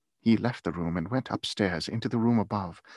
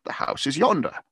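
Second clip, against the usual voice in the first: higher-pitched, urgent exclamation; exclaiming; 6 semitones higher, 4 dB louder than usual. A narrator's reading. Scrooge correcting the pointing spirit, exclaiming. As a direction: exclaim it, voice rising. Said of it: "Scrooge exclaimed".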